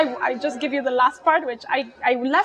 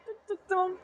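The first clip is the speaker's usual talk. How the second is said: soft, high little tuts; imitated pottering noises; 7 semitones higher, 9 dB quieter than usual. Mom returns dressed for gardening, soft playful tuts. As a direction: hum busily like someone pottering.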